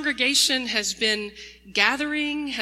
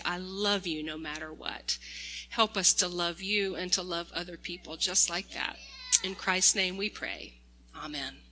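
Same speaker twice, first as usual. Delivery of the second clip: prayer; 3 semitones lower than usual. Acted. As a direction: pray gently on behalf of the children. Leads a prayer.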